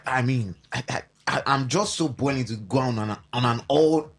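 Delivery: tripping over words, repeating; stammering. Real, not acted. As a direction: stumble over the words while fired up. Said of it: "I'm even stammering".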